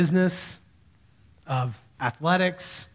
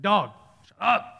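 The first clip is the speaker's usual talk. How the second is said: mild mock yell at a dog, drawn out slowly; slow, half-hearted telling-off of a dog; retold yell; 3 semitones higher than usual. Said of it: "I get ready to yell at the dog again".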